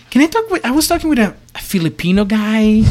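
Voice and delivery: high-pitched imitation of a woman caller; lady caller. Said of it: "the lady was like".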